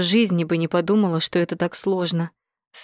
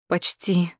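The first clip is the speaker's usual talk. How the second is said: tired groan. A narrator's reading. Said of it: "устало простонала я".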